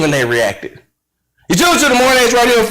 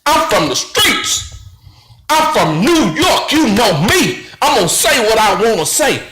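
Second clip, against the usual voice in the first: lower, lightly mocking Stephen A. voice; imitating Stephen A; 5 semitones lower than usual. Host mocking Stephen A.'s reply, lower mock voice. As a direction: play him boasting, lightly put on. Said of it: "And you responded with".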